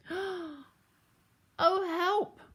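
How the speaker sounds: high, frightened piglet wail; shivering fear. A narrator's reading. Horace hears the wolf above, shivering with fear. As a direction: start small, then cry out. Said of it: "shivered Horace".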